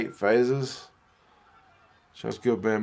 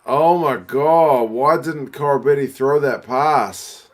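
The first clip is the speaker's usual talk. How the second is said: exasperated cry; 4 semitones higher, 5 dB louder, slower than usual. Real, not acted. Missed pass in match.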